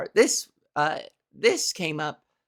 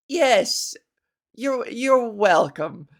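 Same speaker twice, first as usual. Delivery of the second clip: regal welcome; 2 semitones higher, much slower than usual. Retold or imitated. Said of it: "a regal twist of the wrist".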